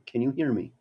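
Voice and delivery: faint broken line; call dropping out. Real, not acted. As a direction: voice fading on a bad call. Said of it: "I can't hear you".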